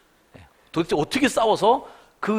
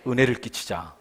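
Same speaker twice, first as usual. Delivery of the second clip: call and response; 3 semitones lower than usual. Shown as a demonstration. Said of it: "따라합시다".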